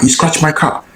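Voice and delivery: hammed-up accusation from the stranger; mimicking the angry man. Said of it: "he scratched my car".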